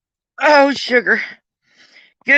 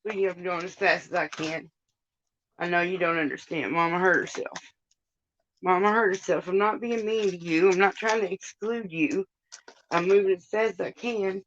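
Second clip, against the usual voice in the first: soft reassuring; 7 dB quieter than usual. Real, not acted. Soothing the dog while hurt.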